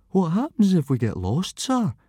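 anxious rising plea; frightened boy pleading with teacher. A narrator's reading. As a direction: beg for reassurance. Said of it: "pleaded Fishlegs".

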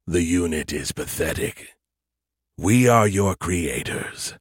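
low, menacing alien entity; cold alien voice. Acted. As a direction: speak as a cold superior alien. Alien creators speak.

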